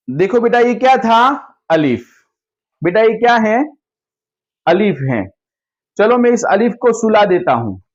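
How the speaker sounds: gentle classroom teacher voice, asking and answering; teacher to children. Shown as a demonstration. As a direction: coax small children through the letter. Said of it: "अब बच्चों को कहेंगे".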